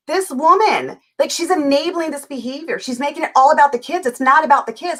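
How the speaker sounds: worked-up retelling of yelling at the screen; retold yelling at TV. Wife railing at a TV show, retold yelling. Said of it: "I'm yelling at the T V".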